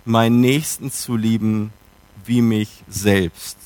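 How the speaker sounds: "wie mich selbst" slowed right down; emphasis on ending. Shown as a demonstration. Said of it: "kommt immer mehr ins Zentrum".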